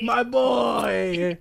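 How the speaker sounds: high, loud cheer through laughter; laughing shout. Real, not acted. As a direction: shout it back while laughing.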